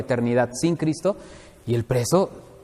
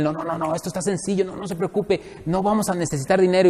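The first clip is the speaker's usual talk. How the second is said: honeyed lawyer talk; 2 semitones higher than usual. Retold or imitated. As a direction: reassure him smoothly like pure honey. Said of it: "nos hablan pura miel". (licenciado hablando pura miel)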